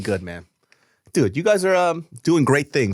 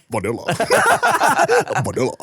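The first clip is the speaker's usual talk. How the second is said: put-on Thai accent; 10 semitones higher, faster than usual. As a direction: mimic the cousins lazily. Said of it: "They're just walking around".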